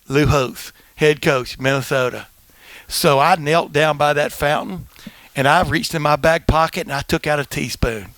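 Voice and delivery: measured, lisping storyteller, "Minnesota" as "Minnethota"; deadpan lisp on "teaspoon"; Lou Holtz impression. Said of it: "a lot of a lisp".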